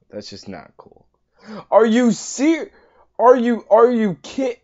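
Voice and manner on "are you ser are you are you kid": indignant squeak. Real, not acted. Outraged at being eaten in game.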